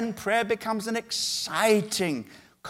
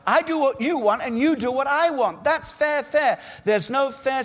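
higher, complaining voice of a believer bargaining; petulant believer; 4 semitones higher than usual. Acted. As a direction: whine like someone who feels God owes them a deal. Believer bargaining with God, quoted.

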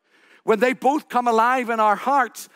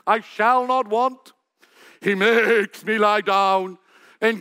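polished actor's recital. Retold or imitated. Young actor performing the psalm for the house party, grand and theatrical. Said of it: "Why is it so different".

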